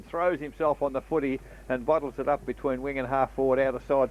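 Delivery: quick radio football call; country radio footy commentary; live play-by-play. Acted.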